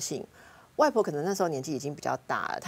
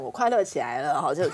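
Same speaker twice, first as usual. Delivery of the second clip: laughing. Real, not acted. Mocking forced happiness, laughing.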